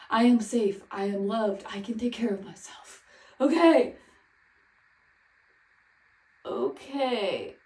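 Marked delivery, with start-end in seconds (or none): 0.1-3.0 self-soothing affirmation. Real, not acted. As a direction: talk yourself down gently. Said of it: "self-soothing affirmations".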